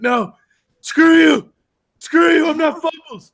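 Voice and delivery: mock-outraged cartoon shout; indignant shout. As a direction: shout it back, offended. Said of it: "And he's like".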